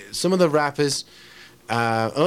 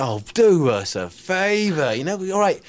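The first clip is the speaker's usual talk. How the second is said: drawn-out, louder dismissive retort; acted scorn; 5 semitones higher, 4 dB louder, slower than usual. Heckler answers the confessional poet, scornful dismissal. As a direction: stretch it in exasperated mock disbelief.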